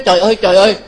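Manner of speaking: loud, startled trời ơi; loud horrified exclamation; shocked cry. Retold or imitated. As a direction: cry out in dismay like the shocked woman. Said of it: "Cái cổ giải dụa".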